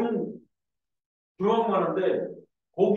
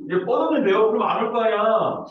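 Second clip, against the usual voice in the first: mock flustered; 4 semitones higher, 7 dB louder than usual. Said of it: "멍청해지".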